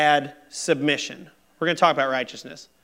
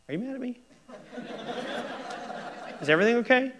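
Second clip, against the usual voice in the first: higher, laughing through the nagging question; laughing needy plea; 9 semitones higher, much faster than usual. Retold or imitated. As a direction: ask again with a laugh, pestering. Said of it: "I'll come back ten minutes later".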